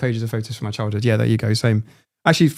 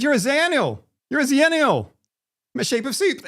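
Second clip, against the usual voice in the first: imitating friend; 13 semitones higher than usual. Retelling friend bursting in.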